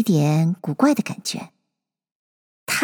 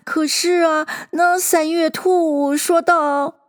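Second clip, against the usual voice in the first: high, shaky, near tears; plead, close to crying; frightened hatter; 6 semitones higher than usual. A narrator's reading.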